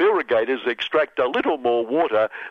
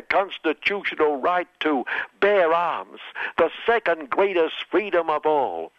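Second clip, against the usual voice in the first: mock presidential pride, a bit higher; hammed-up proud Trump; proud Trump quote; 3 semitones higher than usual. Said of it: "he added proudly".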